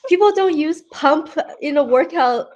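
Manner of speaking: talking through giggles; laughing. Real, not acted. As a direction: laugh while you say it. Giggling through her answer.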